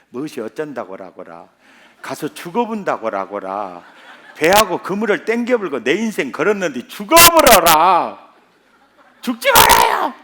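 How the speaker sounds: Peter protesting in broad Jeolla dialect, building to a shout. Retold or imitated. 예수님께 항변하는 베드로, 전라도 사투리로 점점 커지는 외침. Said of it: "전라도 버전으로 하면 이래요".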